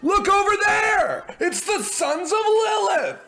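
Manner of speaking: grab the whole crowd's attention; calling out. Acted. Interrupting to call the crowd.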